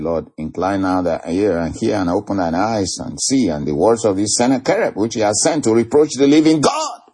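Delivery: preacher quoting a king's plea; declaimed scripture prayer. Acted. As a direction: read the prayer out, climbing to the final word. Reads king's prayer aloud.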